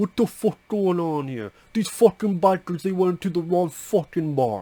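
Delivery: rough tough-guy voice. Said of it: "These people talking like this".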